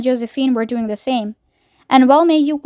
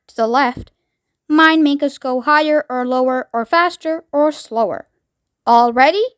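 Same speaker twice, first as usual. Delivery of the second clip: eccentric chocolate maker. Acted. Wonka's voice in story reading.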